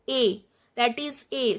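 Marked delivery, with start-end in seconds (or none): 0.1-0.4 "A" as a pure held vowel; accented E sound. Shown as a demonstration. Teacher models the accented E for students, clear demonstration of "A". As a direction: say "A" for the accented French E. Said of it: "pronunciation of E is like English E".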